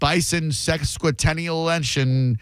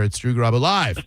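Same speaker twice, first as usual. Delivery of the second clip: Drew Garabo LIVE, swooping up on the last word; yet another stress; 3 semitones lower than usual. Shown as a demonstration. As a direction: save the swoop for LIVE, then fall. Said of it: "I'm gonna say it another".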